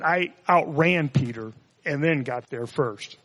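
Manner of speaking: slow, drawn-out mock boast. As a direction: savor each word of the brag. Mock-quoting John's boast, drawn out.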